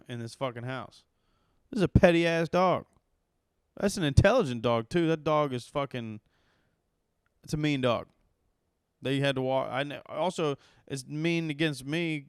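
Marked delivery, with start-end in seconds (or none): 1.7-12.2 loud, heated comic rant; working himself up over a petty dog; worked up. Real, not acted. Comedian ranting to the crowd about the pug, loud and heated. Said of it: "I'm getting all worked up".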